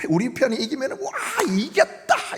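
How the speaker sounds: fast high joyful shouting; a fan celebrating a win; victory cheer. Retold or imitated. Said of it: "이러다가". (신나서 외치는 승리 환호)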